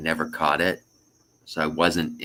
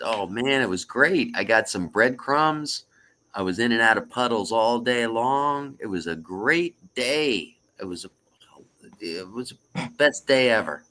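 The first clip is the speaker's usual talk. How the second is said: lightly acted, higher-pitched delight; happy duck; 5 semitones higher than usual. Duck telling the bartender about puddles, mildly thrilled. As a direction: gush a little like a thrilled duck.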